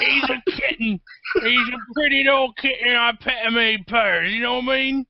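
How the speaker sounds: teasing cutesy voice about a friend; cutesy baby talk. Acted. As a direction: coo it like talking to a pet. Calls Grant a cute kitten.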